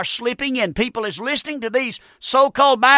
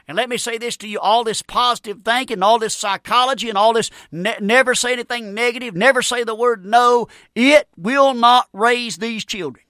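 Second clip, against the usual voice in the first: emphatic preaching. Real, not acted. Preacher builds to a point.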